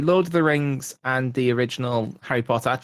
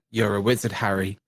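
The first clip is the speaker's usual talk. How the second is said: lightly imitated wizard's messenger, lower on the name; classic video quote; 5 semitones lower than usual. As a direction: quote the video, dropping down on Harry. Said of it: "it's a classic video".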